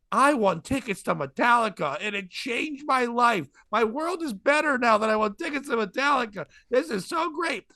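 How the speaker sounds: high-pitched mock drunk gushing; drunk woman imitation. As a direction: imitate a tipsy contest winner, overjoyed. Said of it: "there's this drunk woman".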